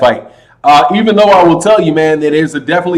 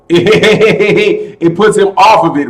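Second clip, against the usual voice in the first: laughing into the words; amused dismissal; 2 semitones higher, much slower than usual. Real, not acted. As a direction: chuckle as you dismiss the idea. Laughs at viewer's ranking question.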